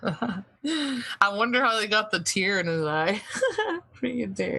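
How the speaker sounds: laughing through the words; chuckling while talking, words breaking into laughter. Real, not acted. Host laughing at the fake crying clip, laughing.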